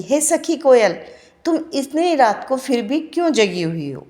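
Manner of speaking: plaintive recited questions, rising on the cries; teacher reads the prisoner's lament aloud; poem recitation. Shown as a demonstration. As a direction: plead with the koel as you read the verse. Recites the prisoner pleading with koel.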